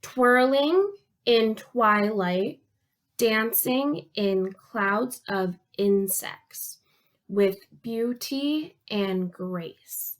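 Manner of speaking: very slow, syllable-counting poem reading; measured lines with a pause between each; haiku reading. Shown as a demonstration. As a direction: recite it slowly, each beat distinct. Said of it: "Try to count 'em with me".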